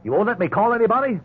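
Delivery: high, loud incredulous protest; can't believe what he's hearing; stunned protest at being denied a call; indignant disbelief. Acted. Outraged disbelief at refusal.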